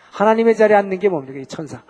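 ordinary talk

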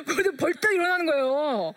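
words squeezed through real laughter; laughing while telling. Real, not acted. Mother telling how her son jumped up, laughing. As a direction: keep laughing as you tell it.

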